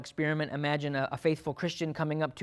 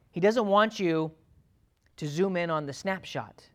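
ordinary delivery

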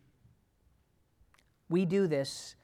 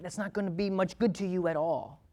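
ordinary talk

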